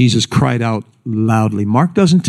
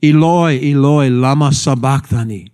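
mildly raised retold cry; 2 semitones higher than usual. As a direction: call it out, imitating a cry from the cross. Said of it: "with a loud voice".

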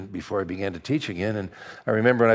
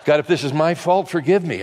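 mock desperate confession; 5 semitones higher, 5 dB louder than usual. Mock desperate pre-surgery confession.

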